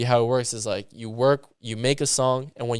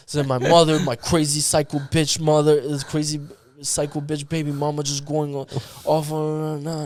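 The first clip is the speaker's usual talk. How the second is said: imitating a venting producer, pitched higher; retold personal rant; 4 semitones higher than usual. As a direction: run on with mock exasperation. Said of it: "he starts getting so personal".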